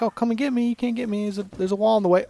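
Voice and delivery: high-pitched mock taunt. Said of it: "taunting a dog".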